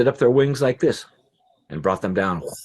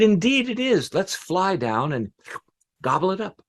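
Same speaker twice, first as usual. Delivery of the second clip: high, eager pigeon voice; wild pigeon; 11 semitones higher than usual. A narrator's reading. Pigeon urging the flock down to the grain, high bird voice. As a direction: pipe up high, keen to gobble. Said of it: "another said".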